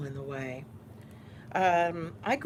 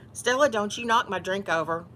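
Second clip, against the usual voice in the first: louder warning to a pet; quick raised-voice telling-off; scolding the cat; 3 semitones higher, 5 dB louder than usual. Real, not acted. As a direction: warn the cat off, firmly. Scolding her cat mid-video.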